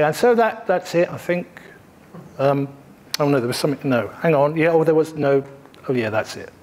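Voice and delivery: mock dithering speaker, trailing down to a mumble; hesitant, unsure wrap-up; a lightly voiced flustered presenter. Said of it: "someone's done a good job".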